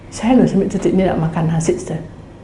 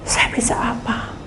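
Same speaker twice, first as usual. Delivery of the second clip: breathless whisper of helplessness; whispered plea; 2 semitones higher, 6 dB quieter than usual. Retold or imitated. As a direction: whisper it, almost giving up. (bisikan pasrah)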